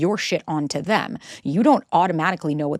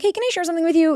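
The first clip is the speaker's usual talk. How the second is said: much higher-pitched polite question; careful, inviting opener; 9 semitones higher, faster than usual. Shown as a demonstration. Partner starting a relationship check-in, inviting. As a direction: gently ask permission to bring something up.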